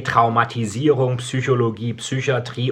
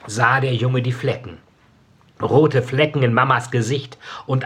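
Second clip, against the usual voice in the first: story narration. A narrator's reading. Author reading his dark novel to listeners, solemn narration. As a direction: read it like a hushed tragic audiobook.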